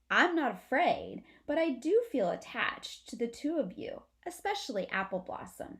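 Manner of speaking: lightly voiced young possum; possum Amlet. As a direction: play the brave little possum brother.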